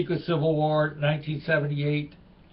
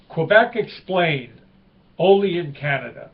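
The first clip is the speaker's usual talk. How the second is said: spoof title; 2 semitones higher, 5 dB louder than usual. Acted. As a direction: announce the joke like a show title. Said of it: "the little spoof here".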